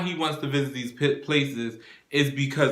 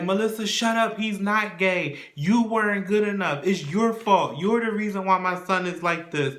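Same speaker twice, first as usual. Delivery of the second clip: retold mild scream; 5 semitones higher than usual. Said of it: "they're screaming back and forth".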